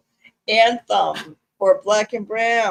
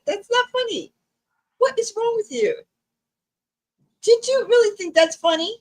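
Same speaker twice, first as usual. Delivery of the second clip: mock indignation; 7 semitones higher than usual. Mock scolding over orphan joke.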